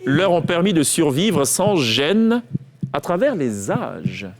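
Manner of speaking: slow, drawn-out dictation voice; quiz dictation. Shown as a demonstration. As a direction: read it out slowly, word by word. Reads out dictation sentence. (dictée lente et articulée)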